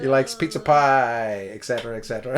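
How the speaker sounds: half-laughing Jersey put-on; mock New Jersey accent. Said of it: "Is that your accent?".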